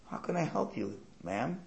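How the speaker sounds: soft, high concern; sympathetic passer-by. Acted. Passer-by comforts a weeping mother, soft sympathy. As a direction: gently offer help to a stranger.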